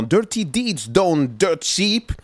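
slow, put-on American accent; show-off American accent. Shown as a demonstration. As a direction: stretch the English title out in an American accent. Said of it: "J'adore faire mon accent américain".

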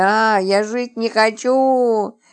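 drawn-out, despairing wail. Acted. Woman lamenting that she doesn't want to live, wailing. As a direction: wail it slowly, stretching the vowels. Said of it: "приговаривала она".

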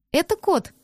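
put-on high, gleeful child's voice; a little girl proudly showing off her cat; happy little girl. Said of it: "радостно объяснила девочка". (радостно, детским голосом)

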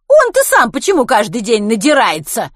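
loud, high, angry question; shouting. Acted. Kitty shouts about Len drinking daily, angry yell. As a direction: yell it in outrage. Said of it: "прокричала Китти".

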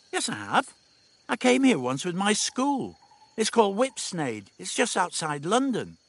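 a hint of a know-it-all teen; confident teenage girl. A narrator's reading. Dodo to Stephen, breezily sure of herself.

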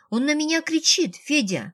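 high whine, falling at the name; whining complaint. A narrator's reading. Ксения complains to Федя about shouting, high and whiny. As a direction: whimper like a tattling little sister. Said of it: "захныкала Ксения".

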